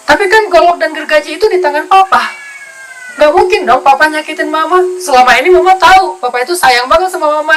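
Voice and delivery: confident wife. Acted. Istri menjawab suami dengan yakin.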